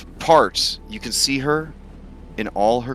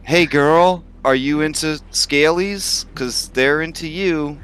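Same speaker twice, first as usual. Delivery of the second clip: higher, flirty dragon voice; 5 semitones higher than usual. Acted. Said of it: "Why did you change your voice".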